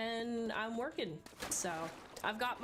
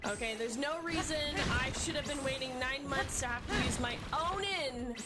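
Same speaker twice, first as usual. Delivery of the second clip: gamer rage; 3 semitones higher than usual. Real, not acted. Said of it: "my two moments of gamer rage".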